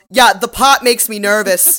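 loud, slow, high mock yell; Cassidy yelling. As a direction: call it out from across the room. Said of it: "Cassidy yells".

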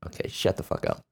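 whispered under the breath at the TV; muttered aside. Real, not acted. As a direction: hiss it at the screen, barely audible. Muttering at the TV speech.

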